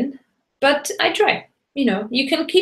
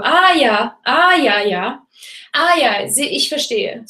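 knowing ah ja; 3 semitones higher, slower than usual. Shown as a demonstration. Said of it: "You can go".

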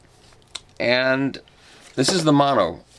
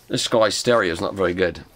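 lower, poorly imitated South African accent; attempted South African accent; 4 semitones lower than usual. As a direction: have a half-hearted go at a South African accent. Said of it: "nor was that accent, South African accent".

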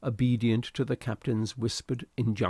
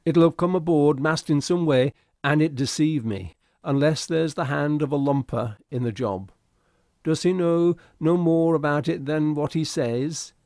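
loud, higher, agitated protest; crying out; 4 semitones higher, 6 dB louder than usual. A narrator's reading. Second mate rounding on the stowaway, crying out loudly. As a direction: keep crying out, defensive and rattled. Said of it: "he cried".

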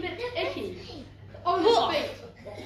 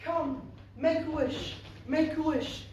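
magic fairy; 4 semitones lower than usual. A narrator's reading. Fairy grants Cindy a wish.

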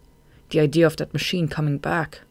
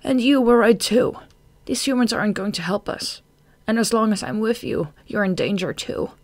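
high, bitter, bursting in loud; angry outburst; 6 semitones higher, 3 dB louder than usual. A narrator's reading. Marina warns Shade he is in danger, angrily. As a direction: open loud and high, then keep pressing. Continues her savage outburst.

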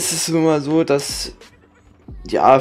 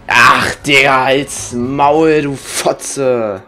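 furious shouted insult at the screen; berserk rage; much slower than usual. Real, not acted. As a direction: snap and yell in sudden rage. Gamer raging at an opponent.

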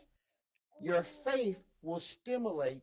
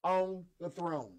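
emphatic preaching; 5 semitones higher, 4 dB louder than usual. Acted. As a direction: drive each phrase home to the congregation. Preaches with raised force.

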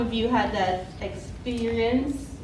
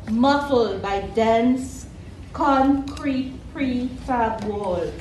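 slow, deliberate poem reading; measured live poetry reading with weighted pauses; poetry recital; slower than usual. Acted. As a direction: recite it line by line, lingering on the images.

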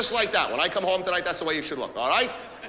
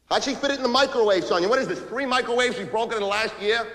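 higher-pitched incredulous complaint; exasperated; 4 semitones higher than usual. Acted. Husband to Sonia about broken microwaves, exasperated. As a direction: demand an explanation, worked up. Quarrel with wife over microwave.

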